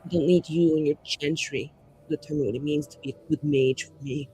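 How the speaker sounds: soft, measured mage speech; restrained defiance. Acted. Mage telling off someone over who decides their fate, quietly defiant. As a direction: keep the defiance low and contained. Player repeats mage's bitter speech.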